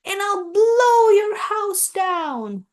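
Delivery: a bragging wolf's threat, climbing; growling wolf. A narrator's reading. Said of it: "growled the big bad wolf".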